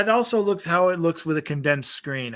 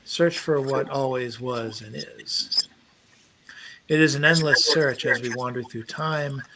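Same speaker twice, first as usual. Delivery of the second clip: poem reading. Acted. Reads the poem aloud.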